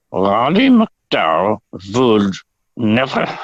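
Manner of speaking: put-on slow, halting try at an old Russian woman's accent; a failed Russian accent sliding toward German; attempted Russian accent. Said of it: "I can't do a Russian accent".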